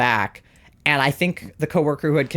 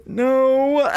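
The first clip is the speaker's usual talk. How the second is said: high squeaky no; 9 semitones higher, 3 dB louder than usual. Retold or imitated. Asked if okay, breaks down.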